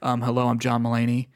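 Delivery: subdued, level comic introduction; John Mulaney. Acted. Podcaster imagines the comedian coming out reformed, subdued deadpan. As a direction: play the comedian toned right down. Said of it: "if he came out and he's like".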